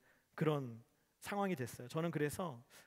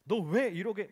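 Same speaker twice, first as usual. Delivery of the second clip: a sergeant's mock scolding, a little louder; 4 semitones higher, 6 dB louder than usual. Sergeant yelling at his juniors, mock angry scolding. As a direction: bark at the junior soldiers, half in jest. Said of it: "막, 막, 막 혼내는 거예요".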